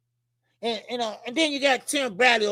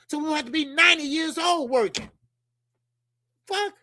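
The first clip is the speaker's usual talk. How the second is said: ranting shout; 5 semitones higher than usual. Real, not acted. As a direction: shout the question at the crowd. Ranting about work.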